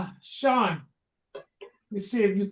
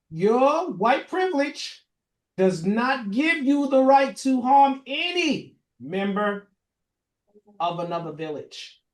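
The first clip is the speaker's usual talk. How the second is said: ringing final-word pronouncement; emphatic proclamation; 6 semitones higher, 7 dB louder than usual. Real, not acted. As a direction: proclaim it forcefully, stretching the key words. Proclaims final word after now hear this.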